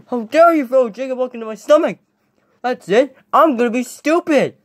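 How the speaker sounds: high, affronted protest; indignant outburst. Acted. Acted indignation after being hit.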